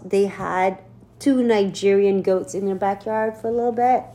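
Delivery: ordinary delivery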